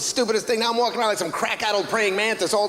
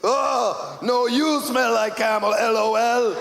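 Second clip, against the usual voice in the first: prank text; 3 semitones higher, slower than usual. Acted.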